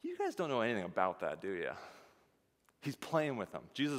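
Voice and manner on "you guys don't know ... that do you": lightly sarcastic ribbing. Acted. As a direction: tease them with mock innocence. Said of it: "really, really sarcastic".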